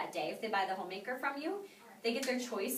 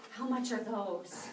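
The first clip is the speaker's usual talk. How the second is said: eager; much slower than usual. Retold or imitated. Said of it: "Mister Beagle's like".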